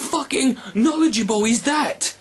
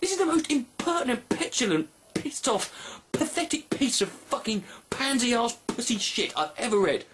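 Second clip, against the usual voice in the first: quiet, softer building insult; softer seething alliterative insult; hushed rant; 7 dB quieter than usual. Real, not acted. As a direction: hold it down and bite each word.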